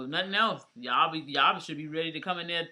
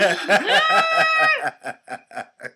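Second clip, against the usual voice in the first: loud, high-pitched burst of laughter; shrieking laughter; 12 dB louder than usual. Real, not acted. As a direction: crack up with a piercing shriek. Reacts to the meme punchline.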